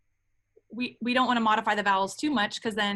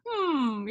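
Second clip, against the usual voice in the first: too-open hum; 2 semitones higher than usual. Shown as a demonstration. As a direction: hum placed too far back. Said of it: "you're too open".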